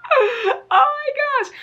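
high, slow, near-tearful awe; overwhelmed gush. Retold or imitated. Vlogger reliving her reaction to the shop's new yarn, high and awed. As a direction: melt over the colors. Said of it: "I'm just like".

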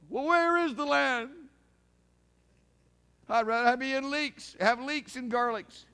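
loud mock grumbling of the wanderers; complaining Israelites. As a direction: whine it like a fed-up wanderer. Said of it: "They wouldn't believe what was told them".

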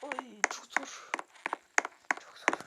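strained, breath held; holding breath. Real, not acted. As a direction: speak while holding breath. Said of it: "Nefesimi tutuyorum şu an".

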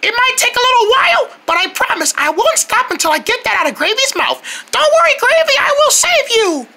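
a touch of a tiny, cute helper; lightly voiced little hero, brave and eager; a hint of a sweet small voice. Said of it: "you even sound really cute".

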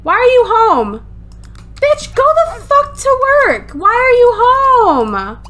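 high-pitched exasperated shouting; annoyed yelling. Real, not acted. Player ordering her Sim back to work, annoyed yelling. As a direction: yell in outrage, dragging out the last question. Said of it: "I'm so annoyed".

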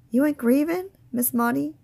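can't believe she isn't sad; surprised. A narrator's reading. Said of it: "I asked, surprised".

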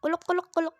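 mock drowning gurgle; choking gurgle. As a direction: gurgle like water in the throat. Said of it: "Boğuluyorum lan".

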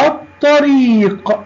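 الطريق with a doubled emphatic t, no l; silent lam. Shown as a demonstration. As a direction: say الطريق as at-tareeq, vowel stretched. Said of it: "كتبنا اللام ولم ننطقها".

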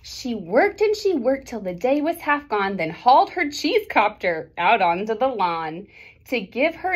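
lively picture-book read-aloud; reading to children. A narrator's reading. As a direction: read the rhyming story to the class.

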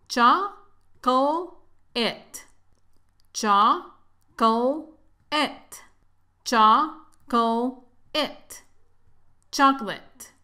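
Chocolate built up syllable by syllable, chak-let; building up chocolate. Shown as a demonstration. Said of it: "Practiquemos la pronunciación de la palabra chocolate".

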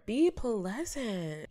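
mock command. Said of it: "who cares".

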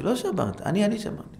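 high, insisting it was me; child outbidding a sibling; eager insistence. Acted. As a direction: fight to take the blame. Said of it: "אחד שאל".

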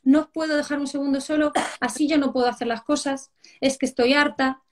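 mock exasperated parental telling-off; fed-up mother. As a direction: scold like a mum at the end of her patience. Mother scolds in acted scene.

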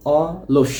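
অলস as two separate beats, অ then লস; split into syllables. Shown as a demonstration. Teacher repeats for the class, অলস divided into অ and লস. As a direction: say অ, break briefly, then লস for অলস. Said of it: "দুইটা অক্ষরে আমি ভেঙে দিলাম".

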